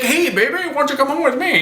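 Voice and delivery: mock creep hitting on her; sleazy guy. Harasser hassles Betty in the alley, with a hammed-up sleazy come-on. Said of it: "He's like".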